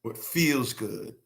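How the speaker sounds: low, soft, drawn-out words; slow, hushed repeat. Real, not acted. Man driving a point home to viewers, slow hush. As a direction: let it sink in, very slow and quiet.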